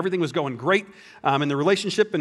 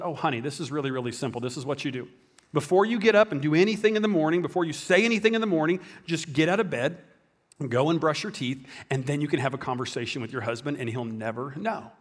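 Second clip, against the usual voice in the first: soft motherly advice; 3 semitones lower, 4 dB quieter than usual. Retold or imitated. Mother advising her worried daughter.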